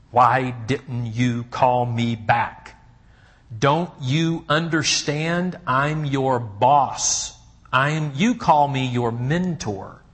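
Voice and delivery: hammed-up hurt anger, drawn out slowly; aggressive question. Shown as a demonstration. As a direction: lean on it like a wounded boss demanding answers. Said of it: "That is a wall-building question".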